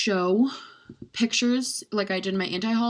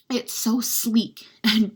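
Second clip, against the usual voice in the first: gushing whisper; 2 semitones higher, 3 dB louder, much slower than usual. Real, not acted. Gushing about packaging whisper.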